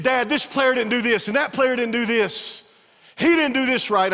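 high, loud venting about teammates; teen son calling dad after a lost game, frustrated. Retold or imitated. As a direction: complain hotly, blaming everyone. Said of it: "he was so frustrated".

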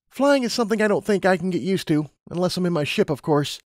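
lightly acted unease about flying; lightly voiced Lumina. A narrator's reading. Lumina admitting she dislikes flying, reluctant.

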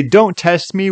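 light demo of an angry line; mock shout. Shown as a demonstration. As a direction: throw out "Don't test me" like a half-hearted shout. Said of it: "like, shout and say".

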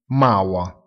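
Maua, con la R finale detta come una A aperta; pronuncia tedesca. Shown as a demonstration. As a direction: dire Maua lento, la R finale si scioglie in A. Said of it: "si pronuncia Maua". (Maua scandito lentamente, finale in A)

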